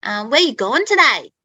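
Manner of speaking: a touch of broad Australian twang; broad Australian accent. Shown as a demonstration. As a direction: do a broad Aussie, Steve Irwin style. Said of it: "like, the really broad Australian accent".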